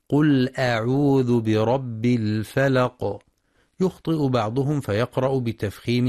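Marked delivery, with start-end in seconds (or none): 0.1-3.2 slow chanted tajweed recitation; Quran recitation. Shown as a demonstration. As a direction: recite it slowly with measured tajweed. (تلاوة مجودة بطيئة)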